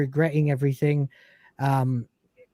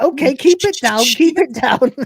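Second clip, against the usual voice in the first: mock hush; 11 semitones higher, 8 dB louder than usual. Lister hushing loudly.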